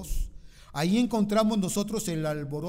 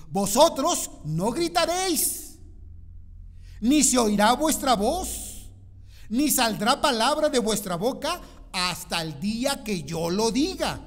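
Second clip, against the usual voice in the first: booming command; 5 semitones higher, 6 dB louder than usual. Acted. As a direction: proclaim it to the whole army. Preacher voicing Joshua's command.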